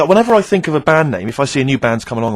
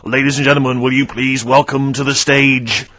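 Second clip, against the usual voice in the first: arena announcer; slower than usual. Retold or imitated. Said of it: "test this name for us".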